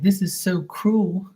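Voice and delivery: high, slow mock whine; high mock-offended complaint; mocking woman. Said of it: "She was like".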